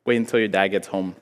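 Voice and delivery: low, soft, ominous; quiet warning. Retold or imitated. Mom warning her son of punishment, quietly ominous.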